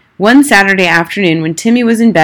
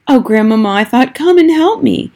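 high, pleading call for grandmother; a scared boy begging for help; boy in the tree silently begs grandmother to come; frightened plea; 7 semitones higher than usual. A narrator's reading. Panicked boy calls inwardly.

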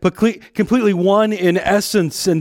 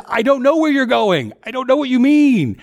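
higher-pitched, bewildered questioning; confused Thomas; 5 semitones higher than usual. Acted. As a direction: play the lost disciple pleading for answers. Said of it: "Thomas says".

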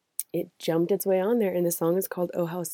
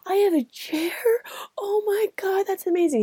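much higher, breathless disbelief, Oh my God half whispered; awestruck patient; 12 semitones higher than usual. Retold or imitated. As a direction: squeak out the amazement like a dazed kid. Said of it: "The guy goes".

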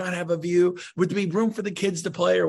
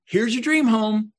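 louder, higher, slow reveal; excited pitch; 6 semitones higher, 5 dB louder, slower than usual. Retold or imitated. Agent phoning buyer with the dream home, excited. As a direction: present it like a prize, slowly. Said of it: "I call you and say".

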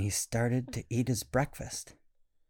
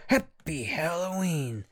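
put-on excited boy; 6 semitones higher than usual. Boy jumps off bunk, shouts.

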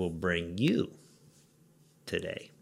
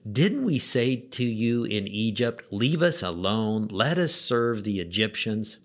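sarcastic, slowed. Retold or imitated. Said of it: "being sarcastic and reckless".

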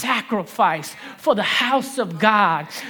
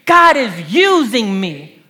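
louder, slower and full of belief; said with conviction; 7 dB louder, slower than usual. Shown as a demonstration. Pastor leading the church to proclaim it, louder and with conviction. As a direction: declare it like you mean it. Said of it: "but say it like you believe it".

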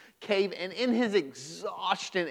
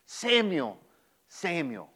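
lightly voiced sermon storytelling; gentle sermon narration; story narration. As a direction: tell the Bible story plainly to the congregation. Tells the Samuel story.

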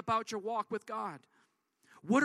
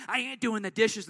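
louder, sassy flat refusal; attitude version; 6 dB louder than usual. Shown as a demonstration. Daughter refusing dad's dish request, louder with attitude. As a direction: snap it back with attitude. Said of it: "Totally different".

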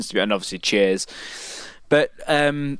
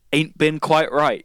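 mocking; 3 semitones higher than usual. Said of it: "mocking that".

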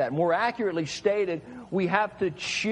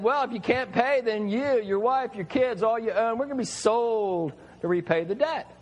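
rich master; 4 semitones higher than usual. Acted. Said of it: "So the rich man said".

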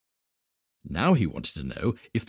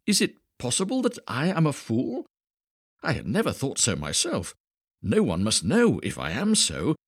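put-on wise old man, worried; 6 semitones higher than usual. Old man's anxious thoughts.

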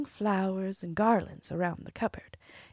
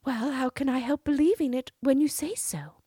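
cartoon princess; 8 semitones higher, 6 dB louder than usual. Princess answering.

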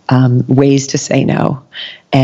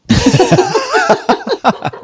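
high delighted laugh. Real, not acted. Host laughing at her teacher's blunt reply, high delighted laugh. Laughing at Byron Katie's answer.

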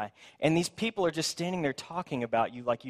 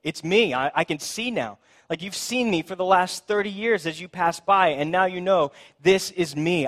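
excited; 4 semitones higher, 4 dB louder than usual. Acted. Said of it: "And he's like".

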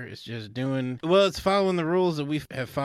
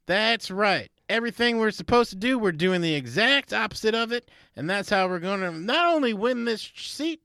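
hyped rally cry; 8 semitones higher than usual. Acted. Campaign manager rallying the team, rising rally voice.

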